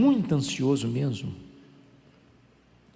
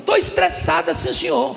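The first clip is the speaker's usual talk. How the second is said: put-on high, half-laughing child complaining; girl's voice; 13 semitones higher, 6 dB louder than usual. Pastor imitating the girl, high and laughing. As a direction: mimic a ten-year-old sighing she's stressed.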